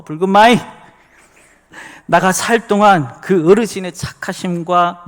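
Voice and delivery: loud, hearty Jeolla dialect recitation. Shown as a demonstration. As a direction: belt out the psalm in broad Jeolla dialect. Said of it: "우리 전라도 버전으로 된 이 시편 이십삼 편".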